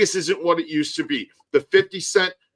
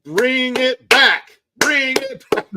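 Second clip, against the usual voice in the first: pleading call; 5 semitones higher, 6 dB louder than usual. Real, not acted. Pleading for cheap buffets.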